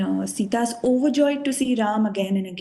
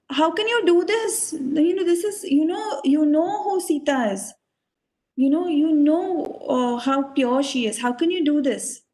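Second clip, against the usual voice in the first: mildly indignant protest, pitched higher; Lakshman; 4 semitones higher than usual. Retold or imitated. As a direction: protest with a touch of anger. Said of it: "And Lakshman is so angry".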